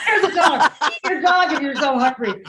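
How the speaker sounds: high, loud retold blurt; a loud hammed-up gaffe; retold mock shout. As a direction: yell it out mockingly.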